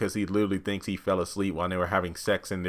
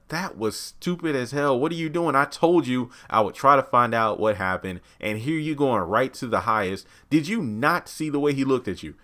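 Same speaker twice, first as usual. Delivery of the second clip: mild mock snap; 5 semitones higher than usual. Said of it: "Ruth rightfully snaps on her".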